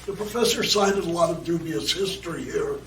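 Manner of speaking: raspy, strained, worn-out voice; hoarse voice. Real, not acted. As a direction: speak through a hoarse throat. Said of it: "I know I sound like Donald Duck".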